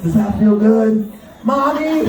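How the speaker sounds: creepy slow whisper-like come-on; serial killer voice. Pretend. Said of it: "I sound like a serial killer".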